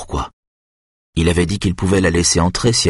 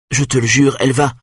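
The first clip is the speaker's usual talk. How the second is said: Benjamin pushes his case, pitched up and urgent; frightened boy trying to convince Marek; boy pleading, voiced higher; 6 semitones higher than usual. Benjamin swears, pitched high.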